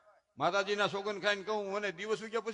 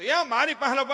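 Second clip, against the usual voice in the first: grandmother; 5 semitones higher, 8 dB louder than usual. Retold or imitated. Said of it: "તા તો એની grand mother".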